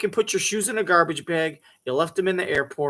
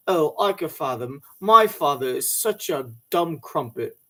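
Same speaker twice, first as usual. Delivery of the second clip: mock British accent; 2 semitones lower than usual. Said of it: "she's drinking a glass of Earl Grey with some chocolate biscuits saying".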